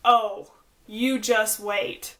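slow, drawn-out ominous oh you just wait; imitating people's knowing warning, slowly; mock knowing warning. People warning a pregnant friend, slow mock ominous tone. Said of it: "everybody just goes".

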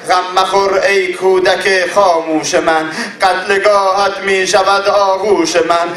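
measured mournful verse recitation; recited elegy. Acted. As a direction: recite the lament poem in steady grief. Mourning poem to the infant.

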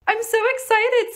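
high, drawn-out excitement; slow, high-pitched thrill; excited. Real, not acted. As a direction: stretch it out with rising glee.

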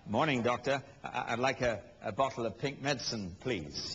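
a lightly played chirpy patient; patient breezily asking the doctor for pink medicine; cheery patient. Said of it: "you say to her or to him".

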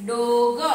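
"ડોગ" said loud with a long vowel; loud, stretched "ડોગ"; pronunciation demo. Shown as a demonstration. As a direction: model "ડોગ" loudly for pupils to copy. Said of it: "શું ઉચ્ચાર થશે?".

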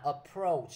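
approach with the stress on the second syllable, "ap-PROACH". Shown as a demonstration. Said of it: "nhấn vô âm thứ hai".

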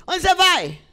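sudden loud, high stage line; exaggerated theatrical question; mock stagey actor. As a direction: burst out like an overacting actor. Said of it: "canso de ver atores falando assim".

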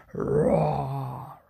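growl-roar low like a bear. Acted. Old Bear roars near the oven, low bear roar. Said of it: "Old Bear followed his nose".

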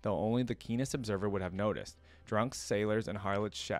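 measured storybook reading; story narration. A narrator's reading. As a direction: narrate a dark tale with care. Reads the story aloud.

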